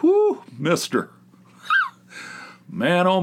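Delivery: high, slow whoop of cold shock; mock cold shock. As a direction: gasp it out like icy water just hit. Cold water hits back.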